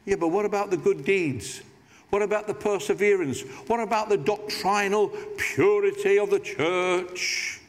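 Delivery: a put-on voice, mock offended; put-on objector voice. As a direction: voice a churchgoer defending their good deeds. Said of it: "I don't know why I put that voice on".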